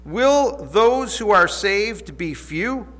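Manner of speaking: measured, solemn Bible reading; scripture reading. Acted. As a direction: read the passage with reverent weight. Reads scripture passage aloud.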